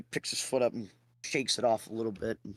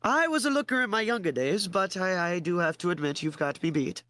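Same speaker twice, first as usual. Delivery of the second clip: put-on chuckling old man; 6 semitones higher than usual. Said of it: "the old man kinda chuckles".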